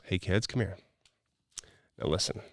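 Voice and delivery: put-on soft, composed call to the kids; patient, loving parent. Shown as a demonstration. Coach demonstrates talking to kids, calm and patient. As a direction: call them over gently and calmly. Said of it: "I'm gonna show confidence, patience, respect, love".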